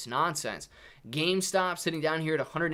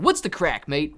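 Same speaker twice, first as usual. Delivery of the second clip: American accent; 6 dB louder than usual. Shown as a demonstration. Streamer trying Irish slang for chat, American accent. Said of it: "American accent".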